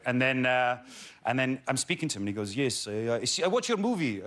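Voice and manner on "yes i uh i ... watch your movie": mock the gym owner's Canadian accent, slightly raised; imitated Canadian accent. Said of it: "That's my Canadian accent there".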